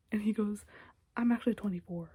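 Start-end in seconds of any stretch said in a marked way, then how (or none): 1.2-2.1 deadpan. Retold or imitated. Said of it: "in, like, such a deadpan way".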